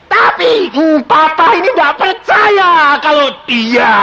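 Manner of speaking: choked-up plea. Retold or imitated. Pleading with unbelieving father.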